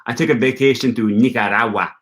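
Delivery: lightly mocking a pretentious traveller, with a Spanish "Nicaragua"; a hint of snobbery on a Spanish-style "Nicaragua". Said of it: "Or like".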